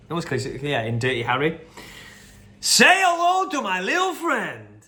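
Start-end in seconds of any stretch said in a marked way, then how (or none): 2.6-4.8 slow, higher and louder gangster voice; hammed-up slow gangster boast; Scarface impression. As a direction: ham up the mobster's threat, drawn out. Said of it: "is Scarface".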